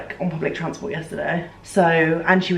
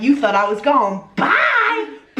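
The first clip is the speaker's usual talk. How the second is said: mock British accent with a shout, slowed down; bad British accent; 5 semitones higher than usual. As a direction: imitate a singer's hammed-up British accent, yelling bye. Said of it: "That's such a bad accent".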